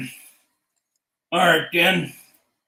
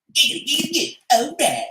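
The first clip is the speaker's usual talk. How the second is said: much higher, stretched okay; high drawn-out okay; 9 semitones higher than usual. Acted. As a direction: squeak it out long and high.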